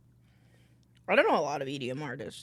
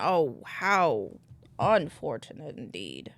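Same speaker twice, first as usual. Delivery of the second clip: mock dramatic; 3 semitones lower, 4 dB louder, much slower than usual.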